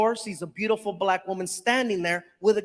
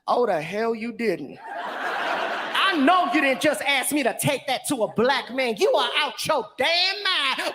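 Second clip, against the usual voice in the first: laughing, indignant sass; mock outrage. Delivery woman refusing the prank, mock outraged. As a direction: act offended, half laughing.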